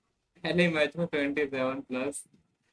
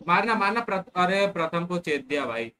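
loud, high battle callouts; urgent shout; 5 semitones higher, 5 dB louder than usual. Real, not acted. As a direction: yell it mid-fight. Fight callouts.

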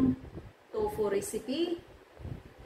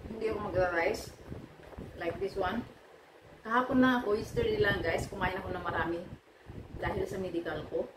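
speaking between bites; talking while chewing; faster than usual. Real, not acted. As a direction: mouth full of food. Seen 2: face clear; sweet potato at mouth, biting and chewing while talking.

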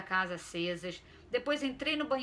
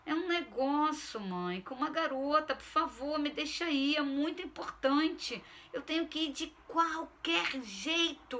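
higher, urgent begging; pleading teen; 6 semitones higher than usual. Acted. Son admits to mother it's about a girl, pleading. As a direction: insist you must go no matter what.

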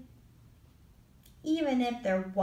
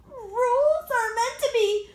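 raised, pushy insistence; insistent raised voice; 7 dB louder than usual. Acted. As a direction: say it like a stubborn rule-keeper. Brother insists on rules.

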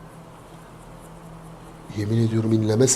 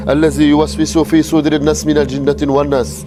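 urgent prayer recitation; 2 semitones higher than usual. Real, not acted. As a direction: recite the sura in fear. Recites protective prayer in fear. (korku içinde sure okuyarak)

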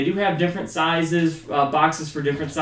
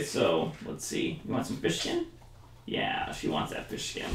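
whispering; 10 semitones lower, 13 dB quieter than usual. Real, not acted. Teasing dog with fish skin.

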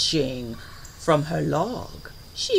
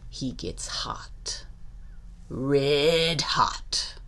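hushed simmering; 5 dB quieter, much slower than usual. A narrator's reading. Narrator on gator getting hot, hushed simmer. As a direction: hold it back ominously before the outburst.

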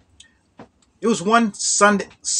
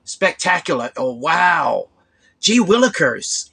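mock corny talk; slower than usual. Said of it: "people didn't say".

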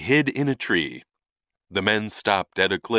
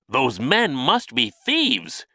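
slow, slightly raised character voice; lightly voiced thought, drawn out; thinking aloud; 5 semitones higher, slower than usual. A narrator's reading. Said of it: "he thought".

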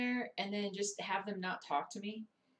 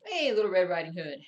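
loud call across the room; 13 dB louder than usual. Real, not acted. Calling out loudly to Little Red Riding Hood. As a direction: call out to her.

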